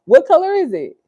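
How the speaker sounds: put-on high sing-song voice for a toddler; baby talk. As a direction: coo it up high to the little one. Talking to the baby.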